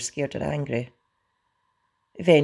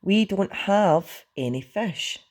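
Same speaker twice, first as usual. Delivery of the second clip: slow, higher-pitched strained refusal; through gritted teeth; 6 semitones higher, slower than usual. A narrator's reading. Hiccup repeats himself to Toothless, strained patience. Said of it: "repeated Hiccup from gritted teeth".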